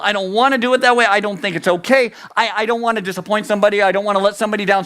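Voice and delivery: rapid-fire, run-on justifying; anxious excuses. Acted. Preacher acting someone going along with others, rushed. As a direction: rattle off excuses in one breathless rush. People-pleaser rushing through excuses.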